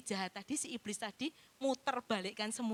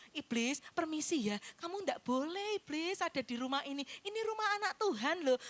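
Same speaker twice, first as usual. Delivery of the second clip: mock polite rebuke; 4 semitones higher than usual. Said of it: "ndak usah dikasih cara kayak gitu".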